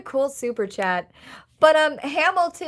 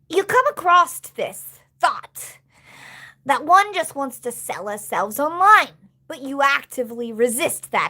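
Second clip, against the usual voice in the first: reading a message aloud. Shown as a demonstration. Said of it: "careful reading your synopsis".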